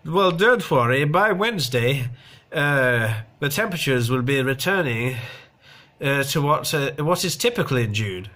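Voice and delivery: a hint of a silly TV weather girl; mildly mocking read of a forecast; mock weather presenter. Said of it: "the silly dolly, she said".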